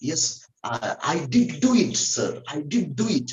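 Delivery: imitated emphatic "did do it"; mildly insistent DID; stress on DID. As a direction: lean on "did" as in a firm reply. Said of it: "emphatically saying".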